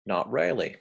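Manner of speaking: imitated broad Aussie; lightly put-on Australian vowels; Australian accent. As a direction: quote it like an Aussie. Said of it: "to borrow the words of".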